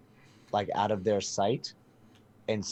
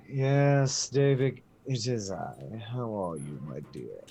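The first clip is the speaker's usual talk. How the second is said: genteel player character; slower than usual. Acted. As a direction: greet the guard like an old acquaintance, formally. Player greets guard in character.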